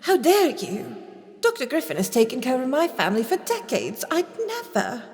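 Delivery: high, fast indignant protest; mock outrage. Accused woman feigning outrage at the vampire doctor.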